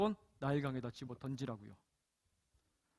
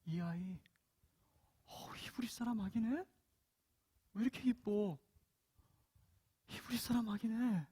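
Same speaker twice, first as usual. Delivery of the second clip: tender pity; 7 semitones higher than usual. Shown as a demonstration. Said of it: "그러한 마음으로 하는 말".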